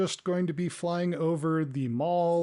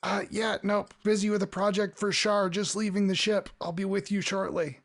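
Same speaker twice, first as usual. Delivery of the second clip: higher, busy voice, half listening; distracted NPC; 5 semitones higher than usual. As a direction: brush them off while busy. NPC on the phone.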